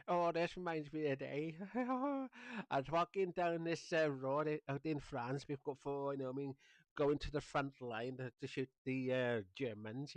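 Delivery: a hint of a war veteran telling a story; a touch of an old man remembering the front line; old veteran reminiscing. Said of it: "old people sitting watching".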